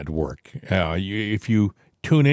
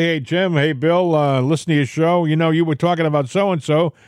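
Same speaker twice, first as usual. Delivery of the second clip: sample caller message; 5 semitones higher than usual. Retold or imitated.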